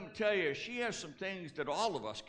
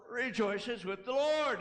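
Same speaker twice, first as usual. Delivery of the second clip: brighter and louder, smiling through each word; with gladness; 4 semitones higher, 3 dB louder than usual. Shown as a demonstration. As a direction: sing it out with a smile, full of joy. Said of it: "Do it with a smile. Do it with some gladness".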